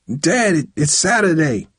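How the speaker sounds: high, halting plea; pleading. A narrator's reading. Son objects to his scolding father, pleading. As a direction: plead weakly with him. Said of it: "Tyree pleaded".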